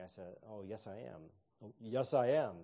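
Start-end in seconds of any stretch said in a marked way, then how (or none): 1.6-2.5 puffed-up, louder mock of a know-it-all seminarian; lightly hammed smug know-it-all; pompous self-important voice. Shown as a demonstration. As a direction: sound important and smart. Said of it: "They're trying to sound important and smart".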